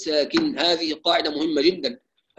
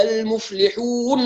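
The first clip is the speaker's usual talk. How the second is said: المفلحون with each letter pressed hard; slower than usual. Shown as a demonstration. Teacher showing the needless heavy pressure. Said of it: "هذا الضغط القوي".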